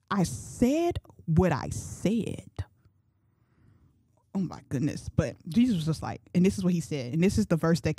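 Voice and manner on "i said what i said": unbothered, very slow and deliberate; nonchalant. Acted. Jesus standing by his words to Peter, nonchalant. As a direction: stretch every word out with cool finality. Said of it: "he was nonchalant".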